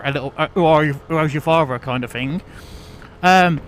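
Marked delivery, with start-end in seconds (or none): 0.5-1.8 lightly imitated West Country accent; a hint of a Plymouth lad's burr. Newcomer mimicking older Plymouth lads, light West Country accent. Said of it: "their accent, they've got that".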